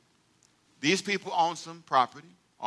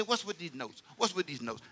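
mock complaint; 11 dB quieter than usual. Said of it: "You say".

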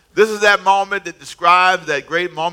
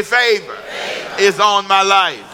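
shouted declaration; 3 semitones higher, slower than usual. Shown as a demonstration. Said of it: "Say it again".

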